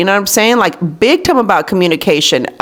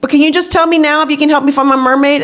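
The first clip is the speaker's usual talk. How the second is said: lightly voiced child, higher pitch; a hint of an insistent kid, pitched up; daughter pressing for help; 6 semitones higher, faster than usual. Daughter asks her busy mom for help, lightly mimicked pressing. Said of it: "And she's like".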